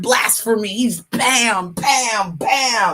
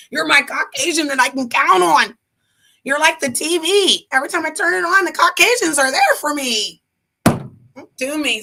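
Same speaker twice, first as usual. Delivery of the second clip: mock pleading; 7 semitones higher than usual.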